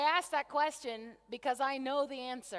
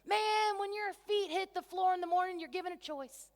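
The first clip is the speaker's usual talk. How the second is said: Dusty impression; 5 semitones higher than usual. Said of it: "I'm gonna do my best Dusty impression".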